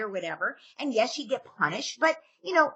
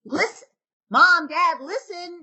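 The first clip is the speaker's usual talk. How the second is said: put-on pleading kid; 6 semitones higher, 5 dB louder, slower than usual. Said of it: "your kid's like".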